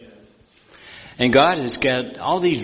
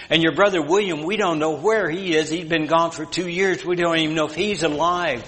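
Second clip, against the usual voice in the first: put-on a pleading old mother, voice raised higher; mother's plea; 4 semitones higher than usual. Mother begging her son John not to row out, pleading. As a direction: beg him to stay for your sake.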